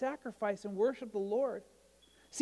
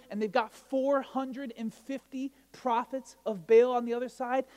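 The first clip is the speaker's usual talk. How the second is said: normal talking voice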